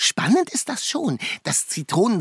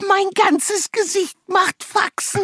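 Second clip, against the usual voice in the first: eating sour candy; 4 semitones higher than usual. Acted. Just bit a lemon.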